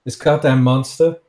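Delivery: indignant, pressing appeal; heated father. Acted. Father demanding his daughter see what her mother wanted, heated. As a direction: argue it out, getting worked up.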